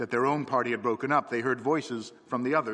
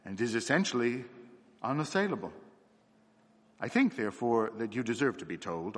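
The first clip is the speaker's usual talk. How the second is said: marked respect. Acted. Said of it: "with marked respect".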